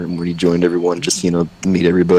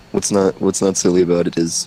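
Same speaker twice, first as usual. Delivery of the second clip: normal talking voice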